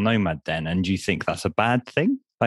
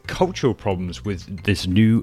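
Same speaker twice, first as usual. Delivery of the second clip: podcast intro read. Acted. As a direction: present the episode like a radio host. Host reads podcast intro.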